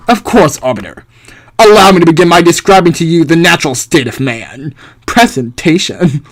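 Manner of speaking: haughty thinker, mildly pompous declaiming; lightly voiced philosopher. Philosopher presents the natural state to the Arbiter, lightly pompous. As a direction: present the theory with a hint of grandeur. Plays Hobbes presenting his argument.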